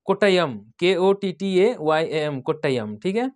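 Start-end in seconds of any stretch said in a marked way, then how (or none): 0.6-2.4 slow letter-by-letter dictation; unhurried spelling of a place name. Shown as a demonstration. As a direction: read each letter out separately and slowly.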